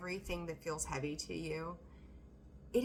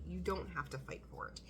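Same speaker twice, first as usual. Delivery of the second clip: whisper; 3 semitones lower, 7 dB quieter than usual. Real, not acted. Soft reassurance to Leo.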